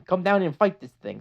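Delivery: put-on a lighter touch of the Brooklyn accent, challenging. The Hutt dares Mando to fight in a light Brooklyn accent. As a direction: dare him to come down, lightly Brooklyn. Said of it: "I'm giving him a Brooklyn accent".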